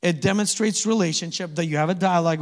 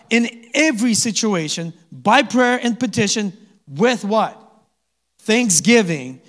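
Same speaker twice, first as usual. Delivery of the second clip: preaching at full voice; 4 semitones higher, 5 dB louder than usual. Acted. Preacher reading verse, congregation call.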